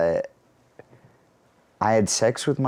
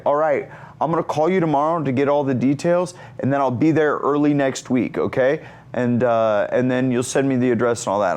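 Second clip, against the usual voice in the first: lightly voiced, higher-pitched caller; Zac Efron; 5 semitones higher than usual. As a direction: reel off plans as the imitated friend. Zac makes plans by phone.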